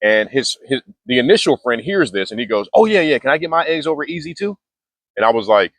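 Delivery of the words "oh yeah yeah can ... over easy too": high, eager, jittery blurt; antsy hyper customer. Retold or imitated. Hyped-up copycat order. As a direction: customer imitating his chill friend's order, way higher and wired. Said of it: "very spastic energy".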